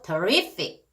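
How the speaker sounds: terrific stressed late, not on the first syllable; stress on second syllable. Shown as a demonstration. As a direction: keep the start of terrific light, hit RIF. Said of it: "앞에 아니고".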